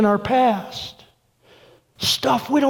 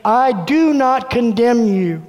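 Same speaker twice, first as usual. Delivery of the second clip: slow, steady and sure; a firm, unhurried promise; voice of Jesus; slower than usual. Retold or imitated. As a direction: say it slowly like Jesus looking you in the eye. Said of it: "the voice of Jesus looking at me saying".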